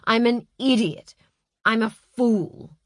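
berating himself, slowing on the last words; self-reproach. Acted. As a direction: kick yourself for the blunder. Agent berates himself after blunder.

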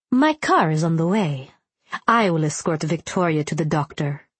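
lightly voiced formal gentleman; measured and proper, a hint of authority; formal man voice. Ilya voiced in the story.

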